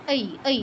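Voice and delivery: ঐ as অ gliding into ই, lips unrounded; oi diphthong. Shown as a demonstration. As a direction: glide o to i without rounding. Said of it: "ওই নয়".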